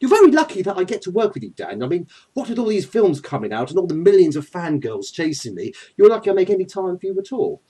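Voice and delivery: lightly voiced self-important English villain; Loki. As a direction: condescend grandly to your host. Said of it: "Thank you, Loki".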